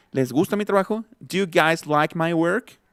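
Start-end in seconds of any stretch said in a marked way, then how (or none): 1.2-2.8 slow "Do you guys like my work" with "d'you"; contracted do you. Shown as a demonstration. Teacher asking if they like the work, contraction demo. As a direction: merge Do and you in a slowed question. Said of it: "también se contrae".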